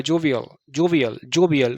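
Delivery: जोवियल as jo-vi-ul, last sound let go; lightly released ending. Shown as a demonstration. Teacher showing students the ending, जोवियल with a light, loose "al". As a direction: run जोवियल together without a heavy final l. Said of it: "हल्का सा छोड़ देना है".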